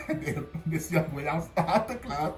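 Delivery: real chuckles breaking into the words; laughing while talking. Real, not acted. Storyteller recalling the knock at class, laughing. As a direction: tell it through a laugh.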